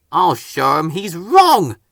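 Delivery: slow, steady determination; a mildly firm vow. Acted. Engine vowing to beat the helicopter, slow and firm. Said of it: "said Percy firmly".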